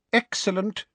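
high, pleased exclamation; delighted. A narrator's reading. Minister praising his colleague's find, delighted. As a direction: savour the good news in a high voice. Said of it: "a smile spreading across his face".

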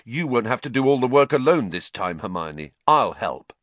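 a hint of fierce resolve; fierce Ron. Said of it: "said Ron fiercely".

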